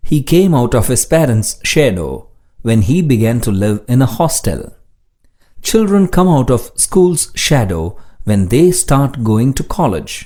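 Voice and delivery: slow, deliberate example sentences; slow dictation reading. Shown as a demonstration. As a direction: read each sentence slowly for learners.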